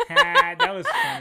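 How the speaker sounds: laughing. Real, not acted. Laughing at friend's jail story.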